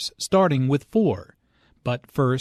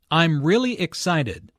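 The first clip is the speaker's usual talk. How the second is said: "really" raised above the other words; stress on "really"; 3 semitones higher than usual. Shown as a demonstration. Teacher showing a language note, stress on "really". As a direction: put the emphasis on "really". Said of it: "Notice the emphasis on really".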